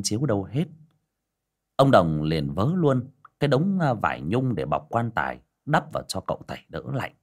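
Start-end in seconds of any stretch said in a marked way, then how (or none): none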